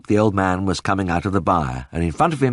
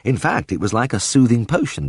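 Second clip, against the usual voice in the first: plain reading voice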